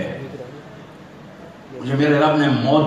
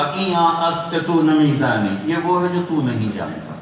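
arrogant. Retold or imitated. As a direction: dismiss an ignorant questioner with scholarly pride. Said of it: "بڑے تکبر سے کہا". (تکبر بھرا لہجہ)

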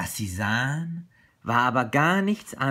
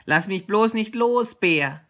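loud, higher-pitched anxious little tiger; calling out; 7 semitones higher, 7 dB louder than usual. A narrator's reading. Little tiger begging Bear while climbing, calling out. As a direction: call out as a clinging little tiger. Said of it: "rief der kleine Tiger".

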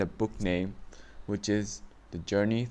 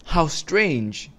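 surprised; 7 semitones higher, 5 dB louder than usual. A narrator's reading. Narrator exclaims at winking owner.

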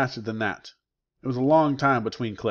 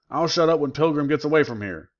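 angry retort; 4 semitones higher, 3 dB louder than usual. Acted. Prisoner argues back angrily.

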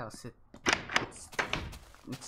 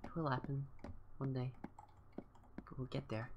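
holding back tears; teary; 6 dB quieter than usual. Real, not acted. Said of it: "Sorry, I'm getting a little teary".

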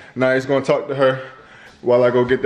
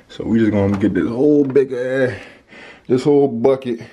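breathless from carrying stuff; puffing between words; out of breath. Real, not acted. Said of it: "I sound so out of breath".

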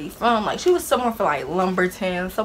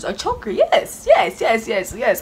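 emphatic yes; slower than usual. Retold or imitated. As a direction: stress the absurdity. Confirming shocking answer.

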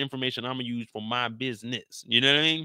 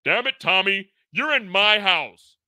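loud, high, very slow; exasperated outburst; 8 semitones higher, 6 dB louder, slower than usual. Acted. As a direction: drag it out in disbelief. JP exasperated at Tommy.

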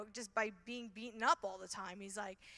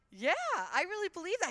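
firm yes; 6 semitones higher, 7 dB louder than usual. Retold or imitated. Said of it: "I'm like".

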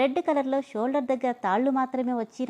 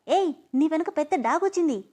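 loud warning; 5 semitones higher than usual. Acted. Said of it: "గట్టిగా".

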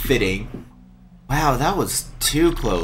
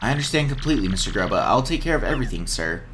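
Jolene's voice; faster than usual. Acted. Reads Jolene's game dialogue.

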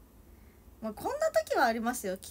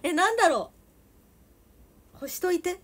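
loud, high Toyama dialect demand; irritated Toyama-dialect order; Toyama dialect, annoyed; 6 semitones higher, 10 dB louder than usual. Pretend. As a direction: push mom to do it, in Toyama dialect. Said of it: "ママと今喋ってる気持ちで喋りますね".

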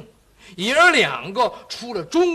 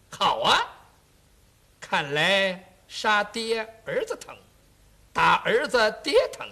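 mocking marshal; 4 dB louder than usual. 元帅嘲讽后下令.

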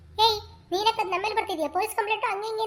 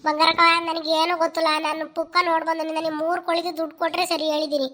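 heated protest; 5 dB louder than usual. Acted. Quarrel over stolen hens.

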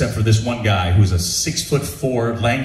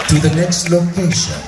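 imitating a deliberate director, pausing for suspense; drawn-out, measured pronouncement; very slow, calm. Director tells Bob they will be friends, very slowly. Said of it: "this director was speaking was so slow".

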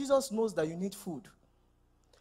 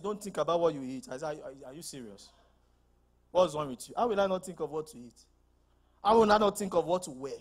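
incredulous retort; 4 semitones lower, faster than usual. Retold or imitated. Mocking a bad teaching.

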